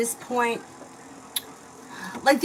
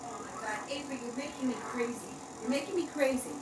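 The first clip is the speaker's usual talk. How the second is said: exasperated groan; 12 dB quieter, faster than usual. Real, not acted. Mom worn out by child's antics.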